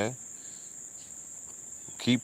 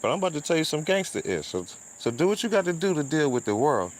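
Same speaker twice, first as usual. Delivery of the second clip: quoting the pastor; 7 semitones higher than usual. Retold or imitated. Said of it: "He just said".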